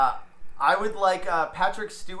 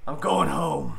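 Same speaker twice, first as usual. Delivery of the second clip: Harrison Ford impression; 3 semitones lower, 3 dB louder than usual. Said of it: "where I'm, uh, Harrison Ford".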